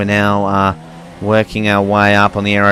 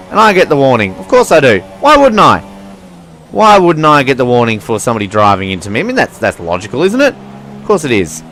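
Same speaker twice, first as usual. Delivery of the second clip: sarcastic indignation; 3 semitones higher, 5 dB louder than usual. Real, not acted. Annoyed at unfair penalty warning.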